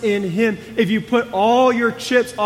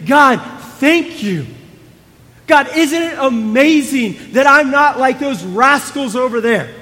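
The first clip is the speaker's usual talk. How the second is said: louder, puffed-up self-praise; smug boasting; 4 semitones higher, 4 dB louder than usual. Acted. Preacher voicing the proud Pharisee, smug and loud. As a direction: strut through it like a preening show-off.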